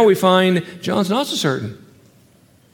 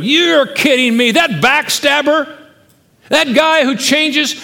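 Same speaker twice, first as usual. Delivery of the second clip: high, slow, indignant mock outburst; mock hissy fit; 9 semitones higher, 4 dB louder, slower than usual. Preacher imagining Jesus betraying a grudge, as a mock hissy fit. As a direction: ham up a petty tantrum. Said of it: "Jesus throwing a hissy fit".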